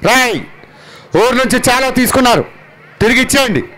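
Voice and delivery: Mahesh Babu voice. Pretend. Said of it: "నేను చేసింది Mahesh Babu sir".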